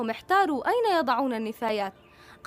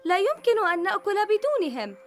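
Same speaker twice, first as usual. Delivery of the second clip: calling out; 6 semitones higher, 3 dB louder than usual. Acted. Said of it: "صاحت لوزة".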